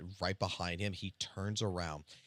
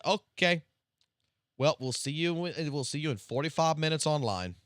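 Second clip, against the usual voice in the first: higher, louder mock boss reply; a fed-up boss answering in a pitched-up sarcastic voice; 7 semitones higher, 5 dB louder than usual. Boss telling late worker to log on, higher and louder with mock sarcasm. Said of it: "I said".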